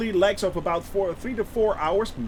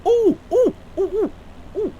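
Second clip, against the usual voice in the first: excited ooh; 12 semitones higher, 4 dB louder than usual. Real, not acted. Excited at something new.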